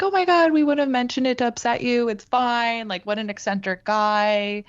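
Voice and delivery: high, fast, gushing imitation of overly kind friends; high, gushing coworkers reassuring her; gushing reassurance. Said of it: "And they were both like".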